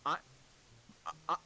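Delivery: high, disbelieving complaint; exasperated. Retold or imitated. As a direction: voice the annoyed half-asleep kid. Woken by mother talking.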